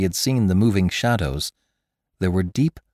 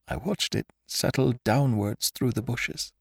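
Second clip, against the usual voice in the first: sobbing; 3 semitones higher, 7 dB quieter than usual. Acted. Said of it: "he sobbed at me".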